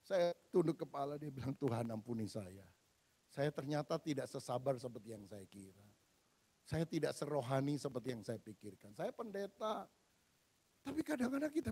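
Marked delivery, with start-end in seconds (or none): 1.5-9.8 soft, bowed-head confession; humbled prayer. Retold or imitated. Pastor confessing to God, soft ashamed prayer. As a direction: pray it quietly, ashamed.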